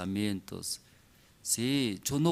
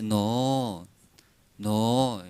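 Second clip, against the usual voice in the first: slow, drawn-out no at ordinary volume; refusing parent. Acted. Parent turning down child's request for chocolate, drawn-out refusal. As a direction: stretch each no, without raising the voice. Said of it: "hasta cuándo no así habla".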